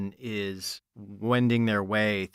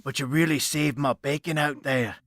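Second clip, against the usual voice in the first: higher, urgent femme fatale; mysterious woman voice; 5 semitones higher than usual. Acted. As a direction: slick spy woman. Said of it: "And she's like".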